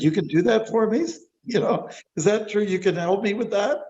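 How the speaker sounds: a small fish thrilled at the offer; eager little fish. Acted.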